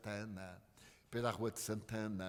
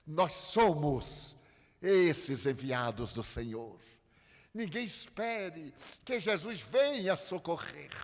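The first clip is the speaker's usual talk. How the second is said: forceful preaching; 2 semitones higher, 6 dB louder than usual. Acted. Opening exhortation to the audience.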